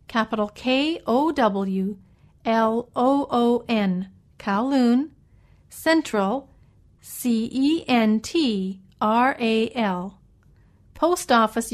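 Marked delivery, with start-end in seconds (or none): 0.1-10.2 slow letter-by-letter spelling; dictating. Shown as a demonstration. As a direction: spell it out for listeners. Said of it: "let me spell some of those words".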